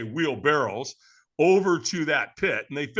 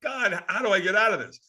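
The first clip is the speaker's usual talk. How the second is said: mock dread; 5 semitones higher than usual. Retold dread amid the chanting crowd.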